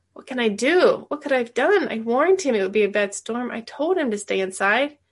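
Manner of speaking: put-on a boy crying out in guilt to the widow; distraught outburst. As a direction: voice lifted, anguished questions. Boy distraught over dead neighbor.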